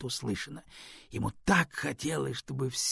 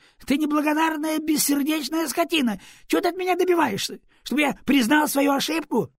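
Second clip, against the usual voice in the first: furious; 13 semitones higher, 7 dB louder than usual. Acted. Ворон продолжает кричать.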